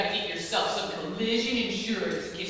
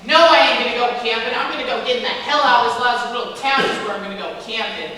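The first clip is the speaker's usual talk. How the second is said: defiant; 6 dB louder than usual. Acted. Defiant loud retort.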